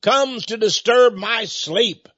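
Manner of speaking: slow, hollow voice from the grave; a dead man woken in his coffin challenges the candidate, slow eerie cry; dead man's cry. Acted. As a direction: call out like a corpse woken in its coffin. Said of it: "the dead man cries out".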